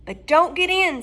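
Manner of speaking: put-on cat soothing the crying girl; talking cat. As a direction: comfort her as a little cat. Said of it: "said the cat".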